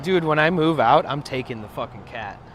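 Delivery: loud fed-up vow to the roommates; retold outburst. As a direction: blurt it out loudly at them. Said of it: "basically, I was like".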